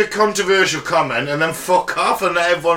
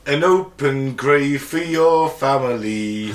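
dystopian announcer; 2 semitones lower, slower than usual. Pretend. Menacing propaganda voice.

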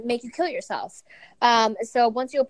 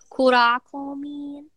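put-on slow demo for a toddler; 3 semitones higher, slower than usual. Shown as a demonstration.

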